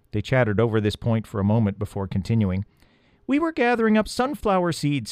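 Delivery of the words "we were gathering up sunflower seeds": high, tiny mouse voice; little field mouse chattering; squeaky mouse voice. A narrator's reading. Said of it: "said the first mouse".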